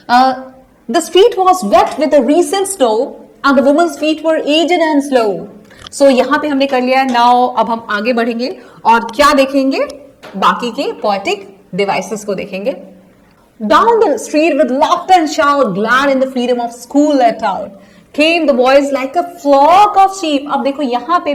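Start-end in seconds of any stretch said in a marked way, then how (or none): 0.9-5.4 slow, measured reading of a verse; poem recitation. Acted. Teacher reading the poem lines to her class, slow and measured. 13.6-20.4 slow, measured reading of a verse; poem recitation. Acted. Teacher reading the poem lines to her class, slow and measured.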